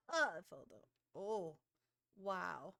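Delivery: loud crying wail about falling; real loud yelp at the fall. Real, not acted. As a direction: wail it out loud in mock dismay. Character falls in game.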